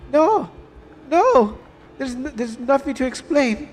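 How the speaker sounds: acted family quarrel. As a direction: voice both sides of a family fight. Voices heated mother-daughter argument.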